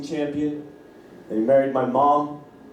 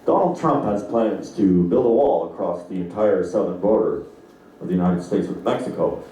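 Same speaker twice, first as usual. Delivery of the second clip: low, measured TV newsreader voice; news announcer; 7 semitones lower than usual. Retold or imitated. Comedian imitating the TV announcer reading the news. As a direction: read it like an evening news anchor. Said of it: "the announcer would be like".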